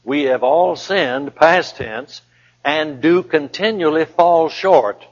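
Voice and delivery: "do continually fall short" drawn out, weight on DO; stress on present tense. Shown as a demonstration. Preacher explaining the verse's tenses, stress on DO. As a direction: stretch "do continually" slowly to show it keeps happening. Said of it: "that word is present tense".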